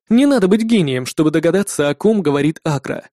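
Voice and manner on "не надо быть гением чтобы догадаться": ordinary delivery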